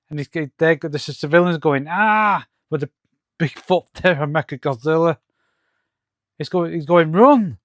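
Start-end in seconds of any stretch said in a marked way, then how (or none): 1.9-2.5 half-hearted cry of alarm; mock scream. Reviewer voicing fleeing civilians, mild mock scream. 7.1-7.6 higher, swooping one-word call; mock alarmed cry. Reviewer voicing a comic warning, mock alarm.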